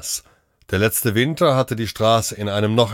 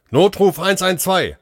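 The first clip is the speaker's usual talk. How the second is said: higher, urgent call; 10 semitones higher, 3 dB louder than usual. A narrator's reading. Doctor calling the emergency line, urgent call. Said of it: "rief der Arzt ins Mikro".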